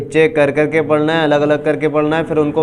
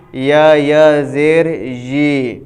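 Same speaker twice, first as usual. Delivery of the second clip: spelling drill. Shown as a demonstration. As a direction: sound out each syllable for the learner. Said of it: "حرف مد یا کی مشق کریں گے".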